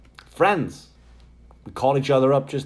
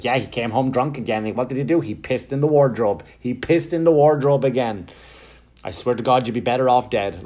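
mock exasperated complaining, building slightly; bitching mother; 3 dB louder than usual. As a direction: imitate a mum griping about her husband. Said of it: "my mother's just fucking bitching about my dad".

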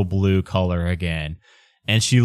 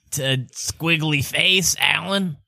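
slow, higher put-on father; dad character voice; 5 semitones higher, slower than usual. Ubo's dad describing the Alan, slow and higher. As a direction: explain slowly in a silly character voice. Game master as the dad explains.

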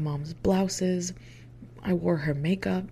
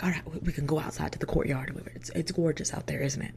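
imitated Southern interviewer, casual; offhand Southern-accented invitation; lightly put-on Southern accent; thick Southern accent; 4 dB quieter than usual. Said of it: "with a thick Southern accent".

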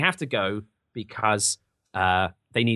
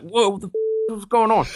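startled whoa; 7 semitones higher than usual. Retold or imitated. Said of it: "they're just like".

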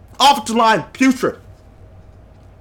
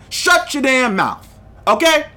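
real angry jab; 5 semitones higher, slower than usual. Real, not acted. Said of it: "right now I'm gonna be emotional".

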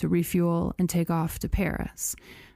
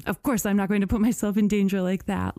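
imagined French worker; faster than usual. Retold or imitated. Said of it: "I can't do a French accent, even an insulting one".

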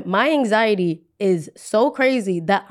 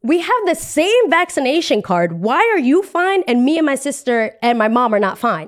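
higher-pitched, mock-outraged questioning; indignant protest; 5 semitones higher than usual. Traveler challenging the boyfriend who was let aboard, indignant. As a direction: demand an explanation, aggrieved.

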